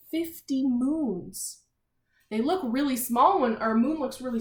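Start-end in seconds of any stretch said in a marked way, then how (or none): 0.1-1.6 slow, wondering emphasis on fifty; amazed repeat. Shown as a demonstration. Teacher wowing the class over fifty moons, slow. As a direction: marvel at the number for the kids.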